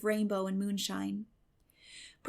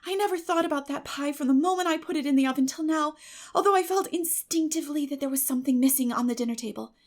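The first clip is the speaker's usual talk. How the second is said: put-on higher, rushing girl's explanation; eager girl Anne; 4 semitones higher, 5 dB louder than usual. Anne explaining the pie to Marilla, eager girl's chatter. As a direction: pour it all out like an excited girl.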